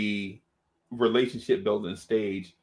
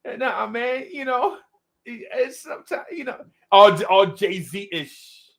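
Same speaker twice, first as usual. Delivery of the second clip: Cully impression; 9 semitones higher, slower than usual. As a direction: do Cully, way up and hushed, laid back. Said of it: "he this Cully".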